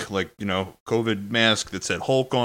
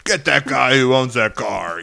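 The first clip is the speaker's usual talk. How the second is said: cheering him on; 3 semitones higher, 5 dB louder than usual. Retold or imitated. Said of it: "I start kinda cheering him on".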